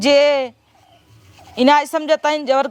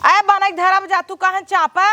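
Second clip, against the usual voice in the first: higher-pitched annoyed retort; irritated scolding; 5 semitones higher than usual. Acted. Sister-in-law answering a demand for food, irritated scolding. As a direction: tell them off, voice pitched up. Snapping at person asking for food.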